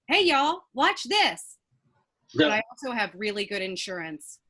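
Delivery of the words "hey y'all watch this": loud, high hillbilly holler; mock hillbilly yell. To friends before a stunt, a loud mock holler. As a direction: holler it like a daredevil redneck. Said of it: "I have yelled the words".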